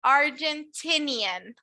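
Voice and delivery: slow, careful Argentinian; teacher modelling the word slowly; slow model word. Shown as a demonstration. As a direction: spell it out slowly for learners. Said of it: "Someone from Argentina is an".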